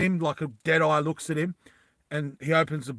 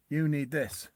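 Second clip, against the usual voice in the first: softer, slightly choked words; 5 dB quieter than usual. Acted. Roy offers Vas the bottle while grabbed, mildly choked. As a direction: say it as if held by the neck. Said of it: "kinda chokingly".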